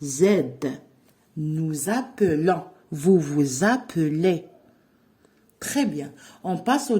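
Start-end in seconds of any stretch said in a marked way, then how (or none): 0.0-0.2 a buzzing Z, held clearly like the liaison sound; teacher sounding out the liaison Z. Shown as a demonstration. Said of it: "on prononce le son". 1.4-4.4 "Nous appelons" with a clear Z linking nous to appelons, nouz-appelons; "Vous vous appelez" said vouz-appelez, the S sounded as Z before the vowel; liaison demo. Shown as a demonstration. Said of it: "quand on fait la liaison, on prononce le son Z".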